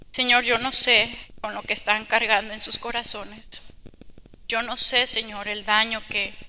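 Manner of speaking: earnest prayer, swelling on each Señor; fervent prayer. Acted. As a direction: pray aloud over the sisters with feeling. Leads closing prayer.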